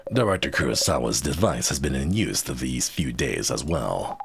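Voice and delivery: low gruff spy growl; Solid Snake voice. Acted. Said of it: "Let's stick with the Solid Snake voice".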